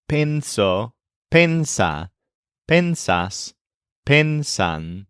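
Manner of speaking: penso, pensa, pensas, pensan with stressed plain PEN; front-stressed penso, pensa, pensas, pensan, vowel left as pen; unbent stem vowel. Shown as a demonstration. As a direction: say penso to pensan with a pure e, no y glide. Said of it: "put the stress on pen".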